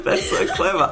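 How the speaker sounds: said through a laugh. Real, not acted. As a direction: laugh while praising the joke. Repeats praise through laughter.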